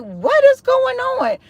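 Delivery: high, drawn-out disbelief; retold bewilderment. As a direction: stretch the question out in a high voice. Retells her bewilderment.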